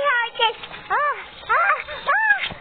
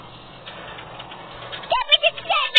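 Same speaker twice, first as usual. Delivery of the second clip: frightened whisper; scared whisper; 6 semitones higher, 3 dB quieter, much slower than usual. Real, not acted. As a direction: stop it breathed out whispered. Ghost appears in game.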